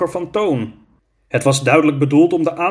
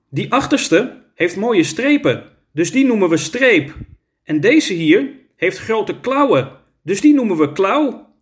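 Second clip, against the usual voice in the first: put-on higher, lilting child character voice; child proudly naming animals; 7 semitones higher than usual. A narrator's reading. Lizzie names the two tigers, high child voice. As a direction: point out each one in a high voice.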